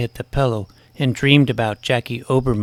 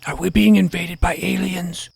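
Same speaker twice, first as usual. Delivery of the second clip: anxious calling; 7 semitones higher than usual. Acted.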